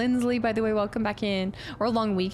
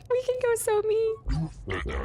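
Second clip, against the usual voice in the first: gleeful drawl; 10 semitones higher, much slower than usual. Real, not acted. Gushing over mean dialogue option.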